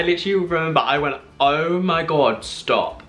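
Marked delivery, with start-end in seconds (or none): 1.4-3.0 freaked out. Retold or imitated. Fan reacts to star's compliment, freaked out. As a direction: retell an overwhelmed reaction, stretching it out. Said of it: "I freaked out when she said that".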